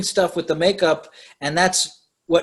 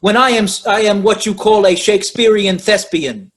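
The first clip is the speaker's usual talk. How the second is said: mock New York accent; 5 dB louder than usual. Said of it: "in his accent".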